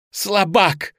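high, loud insult; shouted taunt. A narrator's reading. Bound boy jeering at his captor, shouted taunt. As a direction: yell it with contempt. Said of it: "кричал Лёня".

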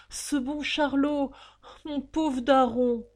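high, loud, drawn-out exclamations; effusive, stretched-out greeting; emotional reunion. A narrator's reading. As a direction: cry out slowly on seeing your kin. Father and son embrace.

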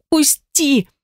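high frantic cry to be let go; desperate shout. A narrator's reading. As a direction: fight him off with your voice. Struggling to break free, shouting.

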